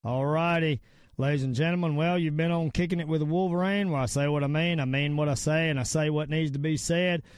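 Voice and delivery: steady, firm show-host outro; radio sign-off. Acted. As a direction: close the show like an announcer.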